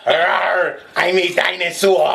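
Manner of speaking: high-pitched, badly faked British accent; a British dinosaur in an unplaceable accent; muddled British accent. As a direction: put on a confused British accent. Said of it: "I don't know what accent that is".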